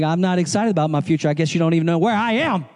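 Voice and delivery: mock-bitter complaint to the pastor, rising high; mad retort. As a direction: throw it back at him, fed up and bitter. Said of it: "I was like".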